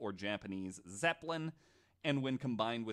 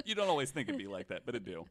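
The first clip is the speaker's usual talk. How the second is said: laughing; faster than usual. Real, not acted. Continues meme, laughing.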